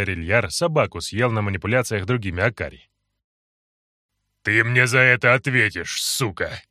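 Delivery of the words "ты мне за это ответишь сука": hissed through clenched teeth; through gritted teeth. Acted. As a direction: spit it out with jaw locked. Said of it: "Сквозь сжатые зубы прошипел Эрни". (сквозь сжатые зубы)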